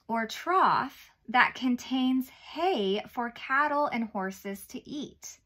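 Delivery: slow, gentle storybook reading; reading to a toddler. Acted. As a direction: read it slowly to little kids. Reads Bible story to children.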